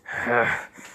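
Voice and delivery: short, voiceless huff of breath; exasperated huff. Acted. Zabuza reacting to being taunted, exasperated huff. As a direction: huff out in annoyance.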